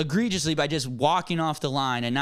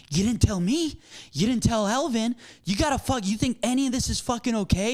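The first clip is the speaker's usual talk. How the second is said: mild, higher-pitched retold telling-off; retold chewing out; 4 semitones higher than usual. Manager confronting cook who left mid-shift, retold chewing out. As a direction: imitate yourself chewing someone out, pitch lifted. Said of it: "chew him out".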